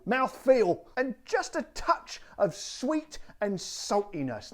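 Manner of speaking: hammed-up old London Cockney; Cockney accent. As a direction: read the advert like an East End Cockney. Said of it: "doing the old Cockney accent again".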